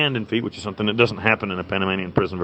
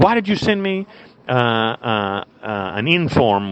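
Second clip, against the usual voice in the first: freaking-out warden; slower than usual. Retold or imitated. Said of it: "she freaks out".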